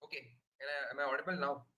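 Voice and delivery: faint and rushed through a weak mic; very soft, fast, barely heard; barely audible. Real, not acted. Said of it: "No, you're not audible".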